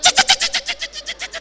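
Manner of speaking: very high, screeching brake sound effect.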